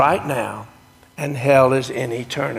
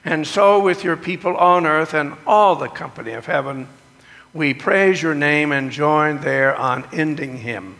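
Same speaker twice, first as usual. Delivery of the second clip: liturgical recitation. Acted. Leads the communion liturgy.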